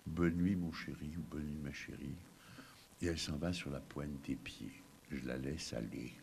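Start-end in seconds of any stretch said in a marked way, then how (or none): 0.1-2.2 soft voice. Retold or imitated. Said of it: "de sa voix si douce".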